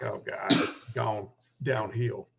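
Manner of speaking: slow, understated in-character grumble; casual talk. Acted. Wounded orc listening for attackers while talking, casually. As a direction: say it slowly, casually, as if to yourself. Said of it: "Talking casually, like".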